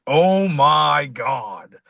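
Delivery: slow, drawn-out amazed outcry; stunned exclamation. Retold or imitated. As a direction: let the shock stretch every word. Reacting to friend's coma story.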